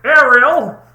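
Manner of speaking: put-on loud, showy Australian host accent. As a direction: open the show like an over-the-top Aussie TV host. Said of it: "I lost my Australian accent".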